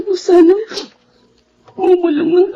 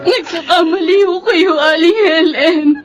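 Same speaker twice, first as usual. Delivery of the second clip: tearful plea. Acted. Woman pleads with grieving mother.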